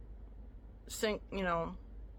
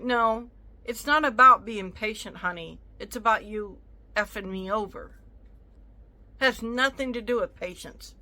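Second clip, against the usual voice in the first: retold heated retort; 6 dB louder than usual. Retold heated reply to the buyer.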